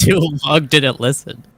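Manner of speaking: said through a laugh; laughing quip. Real, not acted. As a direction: giggle the joke out. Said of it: "what's that?".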